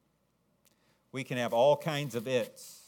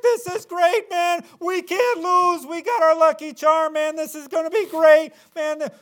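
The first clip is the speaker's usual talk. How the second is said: very high, loud hammed-up whooping; mock party shout, very high and loud; cocky excited Israelites; 14 dB louder than usual. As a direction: play a boastful crowd sure it can't lose. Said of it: "they're like".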